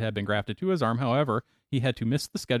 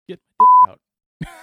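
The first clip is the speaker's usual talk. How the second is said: shrieked punchline, much higher and louder; mock yell; 15 dB louder, much faster than usual. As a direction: yell it out in a squeaky falsetto. Punchline yelled at urinal.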